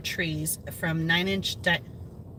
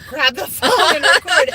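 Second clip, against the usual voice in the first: strained voice; 7 semitones higher, 9 dB louder than usual. Retold or imitated. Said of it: "She can barely talk".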